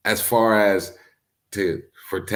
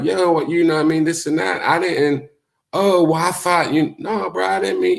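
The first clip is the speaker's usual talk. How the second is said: quick, much higher back-and-forth of both voices; acting out the squabble, pitched up high; retold back-and-forth; 9 semitones higher than usual. Replaying the argument with D Fresh, higher and faster. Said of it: "I'm like".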